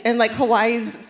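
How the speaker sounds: normal talking voice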